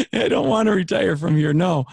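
eager refusal to retire; emphatic retold answer. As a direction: insist you never want to leave. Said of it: "I just said it like that".

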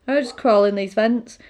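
put-on chirpy kid explaining casually; little girl chattily explaining the vents. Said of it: "it's a little girl".

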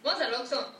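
"Oxxo" stressed on its first O; accent on the O. Shown as a demonstration. Woman demonstrates Yucatán speech, "Oxxo" stressed on the O. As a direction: lean on the O, OK-so, in "Oxxo". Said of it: "ponemos un acento en la O".

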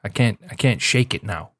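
lingering put-on Minnesota accent; a hint of Minnesota accent. Real, not acted. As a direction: slip helplessly into a Minnesota accent. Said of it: "now I got this accent".

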